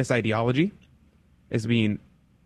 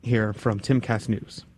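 talking carefully with a sore mouth after wisdom teeth removal; sore mouth after surgery. Real, not acted. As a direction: speak around a sore, swollen mouth. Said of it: "I just got my wisdom teeth removed on Friday".

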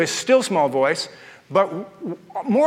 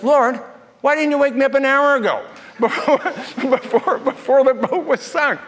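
laughing complaint; 6 semitones higher than usual. Retold or imitated. Laughing question to the Lord.

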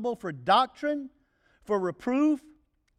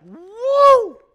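sharp, much higher, much louder recoiling "Woo!"; repulsed woo; 14 semitones higher, 15 dB louder than usual. Pretend. Preacher mimicking a reaction to Satan's stinking breath, recoiling yelp. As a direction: yelp as if hit by a bad smell. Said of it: "His breath stinks".

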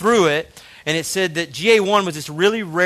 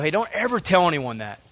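building from plain to a much higher, louder, pressing warning; Satan's whisper; 6 semitones higher, 6 dB louder than usual. Retold or imitated. Satan warning the listener to keep the past hidden, building to loud pressure. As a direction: voice Satan as an accuser that swells and grows urgent. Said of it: "we let Satan go".

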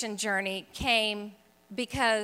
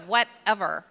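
louder, mock dismissive brush-off; annoyed; 6 dB louder than usual. Recipient of endless Bible verses, acting out her annoyance. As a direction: toss it off with exaggerated annoyance. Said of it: "I was so annoyed by her".

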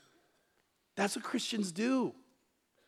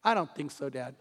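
put-on laughing, smug little-boy refusal; a hint of a cocky three-year-old; smug toddler; 4 semitones lower, 3 dB quieter than usual. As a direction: lean back and refuse. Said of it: "leaned back ... and goes".

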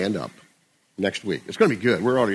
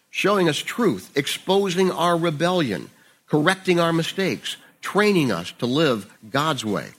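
lifted, expressive Bible reading voice; scripture reading; 3 semitones higher than usual. Acted. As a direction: read the passage out with conviction. Reads The Message paraphrase aloud.

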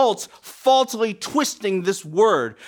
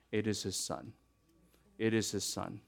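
hushed; 11 semitones lower, 16 dB quieter than usual. Real, not acted. Climax of point.

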